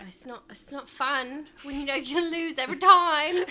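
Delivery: high laughing exclamation. Real, not acted. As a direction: blurt it out through laughter. Laughing outburst.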